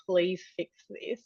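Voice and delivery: slow, understated imitation of a plea; pleading. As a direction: drag it out like a silent, desperate appeal. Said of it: "with the pleading eyes".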